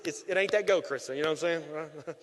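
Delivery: usual speaking voice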